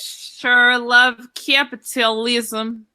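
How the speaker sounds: put-on slow, drawn-out Russian accent. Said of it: "in a Russian accent".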